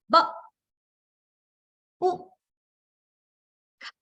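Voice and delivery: "ba, u, ka" with long pauses; sounding out words. Shown as a demonstration. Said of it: "say each letter sound again".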